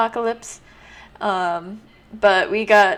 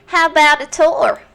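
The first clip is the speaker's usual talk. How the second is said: cheery guide voice; 7 semitones higher, 7 dB louder than usual. Acted. Cheerful tour guide voice for Iris.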